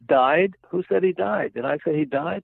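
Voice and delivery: retelling a joke, patient bristles at the doctor, mock anger; angry retort. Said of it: "the patient said angrily".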